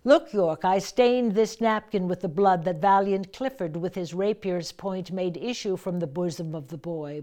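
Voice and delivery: flaunt the bloody napkin; declaimed verse. Shown as a demonstration. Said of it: "You could take a quick breath there".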